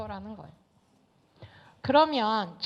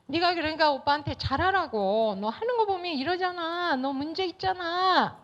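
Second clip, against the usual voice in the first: a higher-pitched, blaming mom voice; nagging mother; 5 semitones higher than usual. Retold or imitated. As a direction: scold her like a mother who sides with the brother. (딸을 탓하는 엄마 목소리, 높게 몰아붙이듯)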